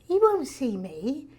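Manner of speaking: slow, swooping incredulity; acted disbelief. Young actress doubts her agent's news, acted disbelief. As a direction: draw it out in mock disbelief.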